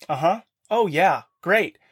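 dismissive, sarcastic "oh yeah, great"; arrogant sarcastic tone. Retold or imitated. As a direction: brush it off with mock enthusiasm. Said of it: "Very arrogant and crappy inside".

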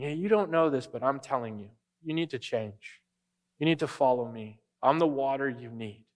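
kindly telling her to change; gentle. Retold or imitated. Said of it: "He's very gentle".

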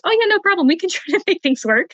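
cheerful boss. Retold or imitated. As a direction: jump up high and breezy, nothing is a problem. Boss cheerfully agrees, retold.

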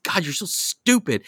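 high-pitched mock insult; mock scorn. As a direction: tease him like he's hopeless. Mocking his friend at trivia.

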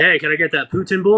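poutine said like "Putin", in a casual order; mispronounced poutine. Retold or imitated. Customer innocently ordering food, mispronouncing poutine as "Putin". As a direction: say "poutine" as "PUT-in". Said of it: "What did you just say to me".

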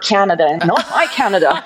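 quick, amused quote with a laugh running through it; laughing while quoting. Retold or imitated. Telling a friend about people's questions, laughing. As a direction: laugh as you mimic their odd question.

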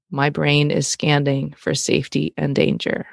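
deliberate, measured delivery; slow it down so each word lands; super slow. Shown as a demonstration. Host sharing crazy brain fact with listeners, slow and deliberate. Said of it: "I'm gonna say this super slow".

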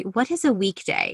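lightly voiced haughty aristocrat; a hint of a disdainful dowager; society aunt. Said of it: "I'm gonna sound like the Dowager Countess".

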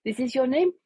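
lightly voiced Celine, high and insistent; high mock Celine. To Ab about her name, high mock insistence. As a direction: chirp it out as Celine, firm. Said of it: "She's like".

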